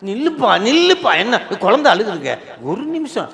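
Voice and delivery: high, hurried-sounding plea to wait; father running up. Acted. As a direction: call out in playful mock urgency. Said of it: "ஓ, ஓடி வர்றாராம்". (ஓடிவந்து நிறுத்தச் சொல்லும் அப்பாவின் உயர்ந்த குரல்)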